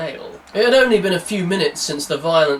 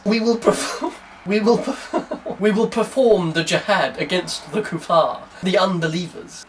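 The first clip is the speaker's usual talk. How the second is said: laughing; 3 semitones higher than usual. Acted. Voicing the character, laughing.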